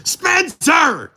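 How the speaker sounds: high, loud mock shout of the name; imitating a yell. Anchor mimicking his co-host's yell, a high loud shout. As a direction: echo his big call back at him. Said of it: "Ken just yelled".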